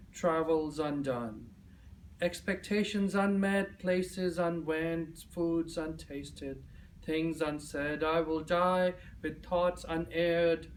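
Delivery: measured, declaimed list with pauses; solemn spoken-word poem delivery; poem recitation. Acted. Recites own poem to audience.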